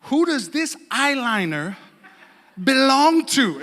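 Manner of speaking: imitating a suspicious wife's slow interrogation; accusing wife. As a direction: draw out the question, then land it loud. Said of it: "she comes up to me and she goes".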